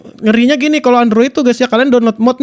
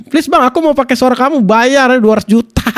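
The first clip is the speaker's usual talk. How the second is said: mock plea. Mock plea from a would-be client.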